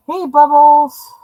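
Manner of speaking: bright, slow greeting to pet; calling to pet. Real, not acted. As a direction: call out to the pet.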